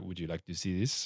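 put-on deadpan French accent, low and very flat. Retelling how visitors offered to show something: imitating flat French delivery. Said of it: "the very flat French delivery".

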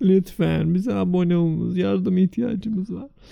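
playful begging. Told to hurry up and cry, the speaker begs the audience, mock pleading. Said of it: "daha yalvaracağım insanlara".

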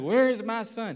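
tearful, frantic crying. Retelling his mother panicking when he was long overdue, imitating mom crying, panicking. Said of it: "She's crying".

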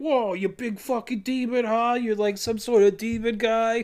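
playful jeering tease. Retelling how Doofus calls out to the demon, acting out Doofus lightly taunting. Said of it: "he does some light taunting".

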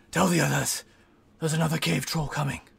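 whisper-yell, loud and carrying. Playing his character, the speaker calls across to Irwin, whisper-yelling. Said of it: "whisper yelled to Irwin".

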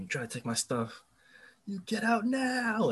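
very high, climbing, swooping screech. Retelling a story, the speaker acts out a woman screaming at a guest. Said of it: "starts screaming at him".

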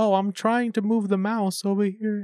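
put-on old person voice. Retelling how a man fools scammers, imitating a put-on old person voice. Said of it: "pretends to put on those, like, old people voice".

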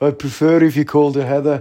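fake Birmingham-sounding accent. Telling a joke about a journalist's question: bad impression of a singer. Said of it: "he's not even a Brummie. I don't know what that accent is".

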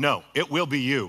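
authoritative, commanding tone. Retelling what a man said after the speaker declined, retelling an authoritative no. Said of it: "with great authority".

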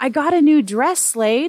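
high, proud exclamation. One of the ladies answers a man's question, exclaiming. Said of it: "Nijoni exclaimed".

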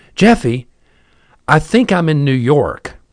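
alarmed, panicky voice, like over the phone. Retelling a woman's panicked phone call to him, imitating her panicked voice. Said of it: "she had this panicked sound in her voice".

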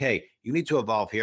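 ordinary talk, nothing marked

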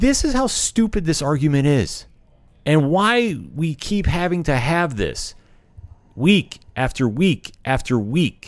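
heated, fired-up rant, high-pitched and slow. Ranting to listeners about an argument that keeps coming up, fired up. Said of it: "I'm getting so fired up about this".

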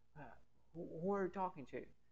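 hushed, half-whispered aside, turned off to the side. Retelling a mother asking who is on the phone: imitating someone half-whispering. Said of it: "sussurra assim".

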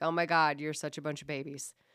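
usual speaking voice

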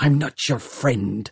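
hissing. Hester Shaw cuts in after Tom speaks to an old man, hissed. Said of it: "hissed Hester Shaw".

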